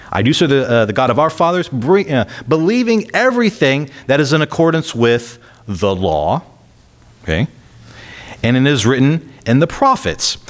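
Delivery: lifted, deliberate reading voice; scripture reading. Acted. Preacher reading Paul's defense to the church, in a lifted scripture voice. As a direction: read Paul's words out to the congregation.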